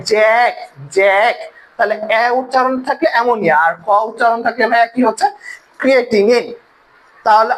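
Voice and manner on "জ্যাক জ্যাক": জ্যাক with the "ae" vowel held out; vowel sounded out in জ্যাক. Shown as a demonstration. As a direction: draw out the middle vowel of জ্যাক. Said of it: "একার উচ্চারণটা আছে সে এ".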